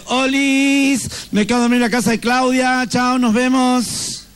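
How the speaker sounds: a hint of a carefree teenager; teen's message. Kids' WhatsApp message voiced.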